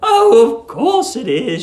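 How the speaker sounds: put-on high, exclaiming old landlady; a bright little cry of false recognition; landlady's fluttery exclamation; cried out. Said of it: "she cried".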